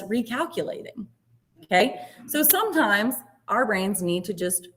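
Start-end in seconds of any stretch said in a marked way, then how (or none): 0.0-1.1 softer, calm mock GPS voice. GPS to driver after a missed turn, lightly imitated calm. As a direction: calmly imitate a navigation system. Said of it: "She just calmly says".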